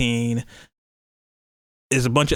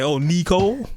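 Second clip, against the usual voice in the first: put-on higher childlike "Oh, Nicole"; little girl voice; 5 semitones higher than usual. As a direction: imitate a little daughter. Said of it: "my daughter does it".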